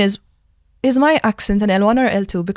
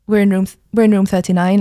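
"We're in room thirty-nine" meant as a question, worded as a statement, louder; 7 dB louder than usual. Retold or imitated. Retelling asking a classmate the room, "We're in room thirty-nine" as a toned question. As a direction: ask "We're in room thirty-nine" by tone alone, a bit loud. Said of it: "Like, it was a question".

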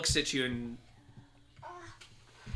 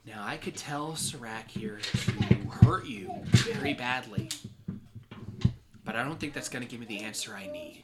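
Salazar. Acted. GM voices villain Salazar.

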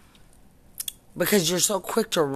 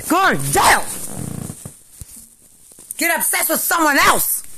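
screaming in rage; 9 semitones higher, 4 dB louder than usual. Real, not acted. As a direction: shriek it at them. Real rant peaks, screaming at accusers.

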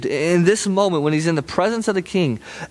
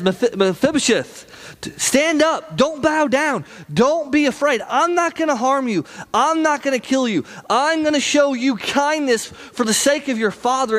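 King David pleading, pitched well higher; eager reassuring king; 8 semitones higher than usual. Retold or imitated. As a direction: urge him up off the floor, kindly but insistently. David reassures frightened Mephibosheth.

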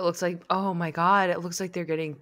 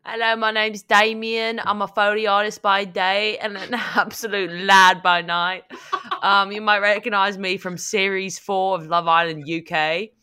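pitch presenter voice; 5 dB louder than usual. Acted. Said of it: "you could tell that was a different person".

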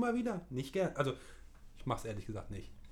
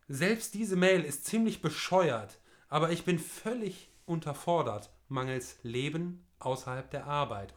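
slow, raised reading voice; reading aloud; 2 semitones higher, 4 dB louder than usual. Acted. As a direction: read the letter out with flair. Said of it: "ich lese es vor".

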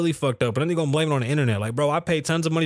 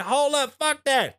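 excited; 10 semitones higher, slower than usual. Retold or imitated. Quoting Dave in story.

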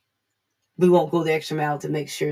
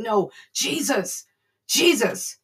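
higher, drawn-out imitated call; insistent calling; 4 semitones higher, slower than usual. Blind man refusing to be silenced, acted insistent calling. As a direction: keep calling out over those hushing you.

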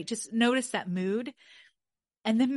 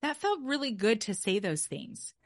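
pleased brain voice; 3 semitones higher than usual. Pretend. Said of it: "the dopamine is to be able to say".

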